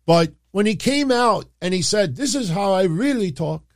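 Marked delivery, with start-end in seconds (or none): 2.2-3.6 put-on higher-pitched, half-hearted Nigerian accent; attempted Nigerian accent. Host quotes the returning wrestler, badly faked Nigerian accent. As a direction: try a Nigerian accent and fall short. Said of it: "I can't do it".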